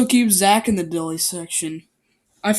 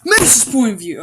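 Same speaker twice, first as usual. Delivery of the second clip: higher, louder, grandly announced; mock sophisticated; 3 semitones higher, 6 dB louder than usual. Shown as a demonstration. Reader announcing the chapter in a posh put-on manner. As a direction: announce it like a fancy narrator, Macy's stressed. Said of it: "I'm trying to be all sophisticated".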